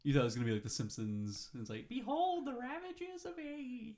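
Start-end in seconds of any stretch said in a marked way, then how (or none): 1.9-4.0 high, slow, hushed spooky voice; spooky quote. Retold or imitated. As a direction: intone it like a cheesy ghoul. Quoting The Simpsons.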